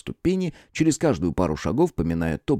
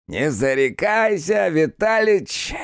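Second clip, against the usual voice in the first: slow, high, drawn-out musing; philosophical drawl; 10 semitones higher, 3 dB louder, much slower than usual. Acted. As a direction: stretch it like worldly wisdom. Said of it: "философски протянул трактирщик".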